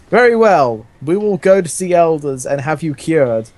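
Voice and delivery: hammed-up roar, then settling into the order. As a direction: bellow it like a hammy commander. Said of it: "Roared Garfield".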